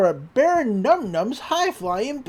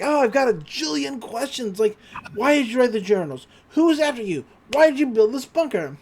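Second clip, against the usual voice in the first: eager questioning; 4 semitones higher than usual. Retold or imitated. Dipper fires questions at the author.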